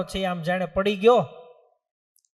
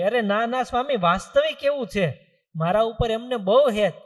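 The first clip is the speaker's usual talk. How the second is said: raised, louder eager protest; eager insisting; 4 semitones higher, 4 dB louder than usual. Acted. Young farmer protesting to the saints, eagerly insistent. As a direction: insist proudly that they love him.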